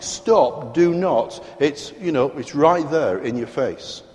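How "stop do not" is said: "Stop, do not" as two firm commands, "do not" higher; emphatic "Stop, do not", each part landed hard. Shown as a demonstration. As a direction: hit "Stop" and "do not" squarely. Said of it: "It's quite emphatic".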